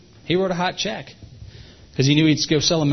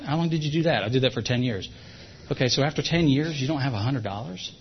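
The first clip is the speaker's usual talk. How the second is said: softly; 5 dB quieter than usual. Shown as a demonstration. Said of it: "you say it very softly".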